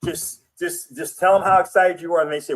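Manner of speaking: ordinary talk, nothing marked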